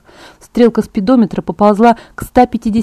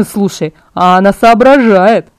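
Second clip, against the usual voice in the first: slow, impressed, in a different voice; surprised; 5 dB louder, slower than usual. Acted. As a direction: sound caught off guard by her cleverness. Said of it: "удивился Эммет".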